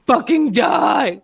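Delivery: slow, loud frustrated yell; frustrated shout. Real, not acted. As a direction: drag it out in an angry shout. Frustrated outburst at cat.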